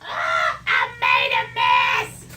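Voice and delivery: loud, slow cry of dismay at the spill; startled scream. Real, not acted. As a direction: yell out as the mess happens. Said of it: "that's what I'm screaming".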